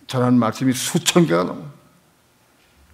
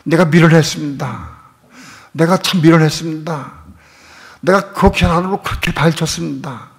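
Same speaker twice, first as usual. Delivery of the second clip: fervent preaching; 4 semitones higher, 4 dB louder than usual. Real, not acted. Preacher rises to a climax.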